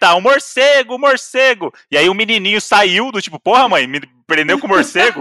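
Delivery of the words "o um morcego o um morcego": put-on, frantic, high, panicked shrieking scream. Telling a story about a woman who started screaming, retelling her scream. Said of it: "ela começou a gritar".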